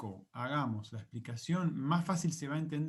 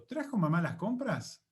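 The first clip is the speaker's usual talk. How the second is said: "¿Trajo mamá las compras?" as a question with weight on "mamá"; focus on MAMÁ; 2 semitones higher than usual. Shown as a demonstration. Teacher asking who brought the shopping, focus on MAMÁ. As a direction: ask it, pointing at "mamá". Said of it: "me estoy concentrando en mamá".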